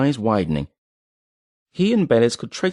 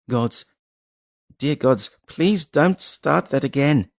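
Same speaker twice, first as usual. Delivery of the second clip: near tears; 5 semitones higher, slower than usual. A narrator's reading. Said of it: "sounded as if he would cry".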